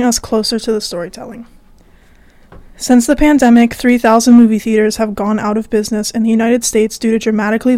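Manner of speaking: upbeat public service announcement; radio ad read. Acted. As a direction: read it like a station promo. Reads a station message.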